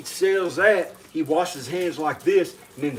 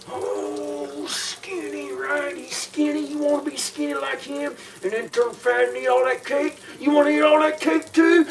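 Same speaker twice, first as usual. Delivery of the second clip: raised mocking pitch; high mocking voice; 10 semitones higher than usual. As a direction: sneer it up high. Mocking a skinny singer.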